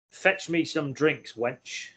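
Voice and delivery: mock master ordering wench. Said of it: "wench would be more like".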